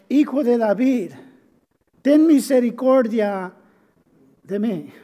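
mild retold shout; crying out. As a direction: call out, pressing on "ten misericordia". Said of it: "él estaba gritando".

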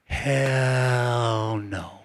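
defiant refusal. Pretend. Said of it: "Dev looks back at me and says".

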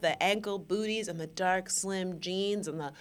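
lightly put-on glamorous indulgence, stretched at the end; bougie body-roll voice. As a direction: savour it as if doing a body roll. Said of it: "you can hear it in my voice".

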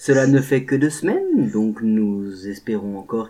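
soft, formal public-address voice; lightly hammed-up French rail announcement; station announcement. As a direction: read it like a train station announcer. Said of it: "un petit message à caractère informatif".

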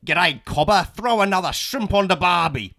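Canadian accent attempt that comes out Australian; botched Canadian accent. Shown as a demonstration. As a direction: try Canadian, land on broad Aussie slang. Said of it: "I will attempt the Canadian accent".

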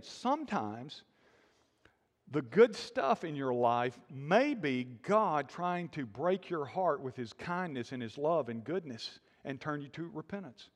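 slow it down and lean into it. Shown as a demonstration. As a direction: say it again slowly, gently pressing each phrase. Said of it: "Let me say that again".

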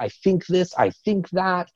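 high, measured thinking voice; thinker type. Retold or imitated. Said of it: "do they tend to be like".

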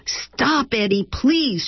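sharp high snap; snapped. Acted. Lorna snapping at Eddie on the phone, sharp high snap. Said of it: "she snapped".

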